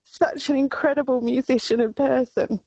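high, emotional tribute; real, emotional. Real, not acted. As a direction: push the praise out while overcome. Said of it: "I'm so emotional".

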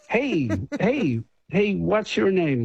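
lightly put-on Canadian guy calling out; Canadian accent. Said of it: "I can't do my Canadian accent".

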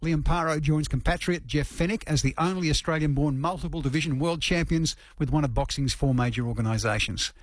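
measured radio news read. Acted. Radio host introduces the boxing story to listeners, news read.

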